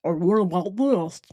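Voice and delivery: slightly altered put-on voice; trying another voice. Shown as a demonstration. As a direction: offer up a different silly voice. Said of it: "Do you like this voice?".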